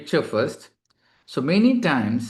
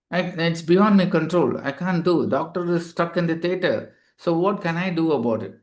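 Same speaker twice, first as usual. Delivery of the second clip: raised, exasperated excuse-making; defensive; 4 semitones higher than usual. Retold or imitated. Front desk staff deflecting blame to a patient, higher and defensive. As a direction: throw up your hands, pitched higher. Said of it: "If you talk like that in a defensive language".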